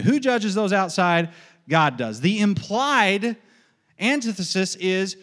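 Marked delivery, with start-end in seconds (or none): 0.0-1.3 raised, ringing quiz question; catechism question. Shown as a demonstration. Preacher drilling his congregation, catechism question. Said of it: "I'm catechizing you". 1.7-2.2 low, firm set response; catechism answer. Shown as a demonstration. Preacher answering his own drill, catechism response. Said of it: "I'm catechizing you".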